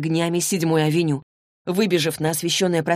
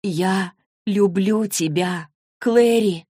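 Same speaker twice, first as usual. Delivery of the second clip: unnaturally calm; 2 semitones higher, much slower than usual. Acted. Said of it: "неестественно спокойный голос".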